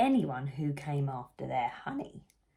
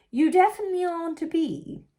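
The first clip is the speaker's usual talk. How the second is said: higher, louder and brisk; queen's verdict; 11 semitones higher, 7 dB louder, much faster than usual. Acted. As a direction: announce it with regal flair. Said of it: "said the Queen".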